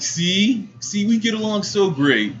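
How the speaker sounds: high-pitched, pleased imitation; mock smitten suitor. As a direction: gush like an oblivious admirer. Suitor triumphant, retold.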